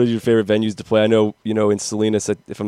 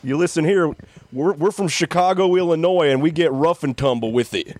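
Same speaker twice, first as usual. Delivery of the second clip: mock tough guy; 5 semitones higher than usual. Joking to bandmates as a mock tough guy. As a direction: puff up like a small-town tough. Mocking tough Chicago band talk.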